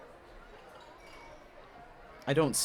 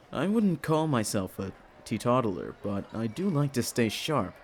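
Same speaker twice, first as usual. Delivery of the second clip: Leslie's voice; 5 semitones lower than usual. Acted. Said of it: "going into Leslie's voice".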